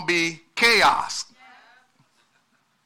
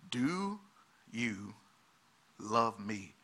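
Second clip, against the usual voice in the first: hushed question; 8 semitones lower, 12 dB quieter, much slower than usual. Acted. Hushed rhetorical quote of Jesus.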